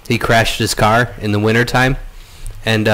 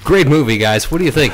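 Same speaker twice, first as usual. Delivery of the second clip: radio voice; 2 semitones higher than usual. Acted. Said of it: "whole podcast in radio voice".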